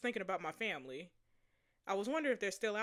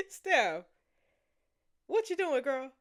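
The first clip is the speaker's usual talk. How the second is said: calling out; 5 semitones higher, 7 dB louder, slower than usual. Acted. Calling out to Steph.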